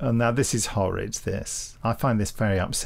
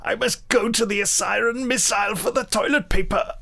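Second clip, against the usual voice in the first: much higher put-on character voice; high silly voice; 11 semitones higher than usual. Host jokes in a high put-on voice. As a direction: play it as a prissy high voice.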